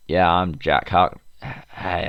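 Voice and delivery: slow, half-hearted American hero impression; tentative stab at an American character voice; Jack Harkness. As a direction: fumble into a bad American impression. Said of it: "what the fuck does he sound like?".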